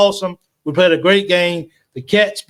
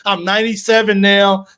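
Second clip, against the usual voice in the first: excited count; 4 semitones higher than usual. Real, not acted. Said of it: "I'm sorry".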